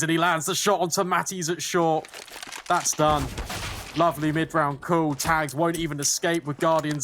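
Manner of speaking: rising hype on the play call; excited casting. Real, not acted. Caster hypes a big play.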